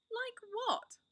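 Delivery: Susan's sharp, high-pitched retort, voice jumping up; indignant question. Acted. Susan retorting to Edmund's jibe, indignantly high. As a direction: fire it back in disbelief.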